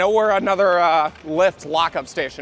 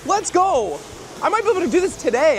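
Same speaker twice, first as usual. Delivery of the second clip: high, loud, drawn-out cheer; excited rallying shout; 10 semitones higher, 4 dB louder, slower than usual. Real, not acted. Rallying viewers to go find her today, elated shouting. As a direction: whoop it out to rally everyone. Celebrating before booking the flight.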